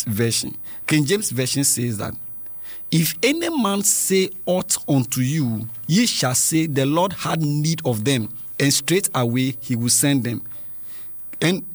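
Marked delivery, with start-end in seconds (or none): 2.9-10.4 slow, stately verse reading; scripture reading. Real, not acted. Host reads King James Version to children, slow reading.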